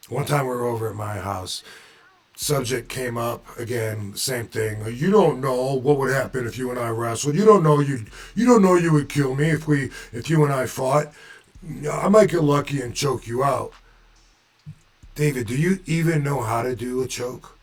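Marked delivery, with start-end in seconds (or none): 4.9-13.7 put-on Boston accent. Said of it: "put his accent in when I remember him talking".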